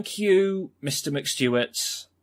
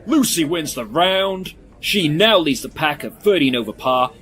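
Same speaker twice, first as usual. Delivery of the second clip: excited winner announcement; 4 semitones higher, 5 dB louder than usual. Acted. Commentator announcing the round's winner, excited. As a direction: proclaim the result like a sports final.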